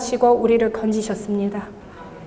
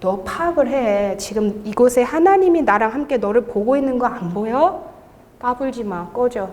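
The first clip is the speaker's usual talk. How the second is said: calm rebuke. Retold or imitated. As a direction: put the demon in its place without raising your voice. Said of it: "마귀가 저한테 뭐라 할 때".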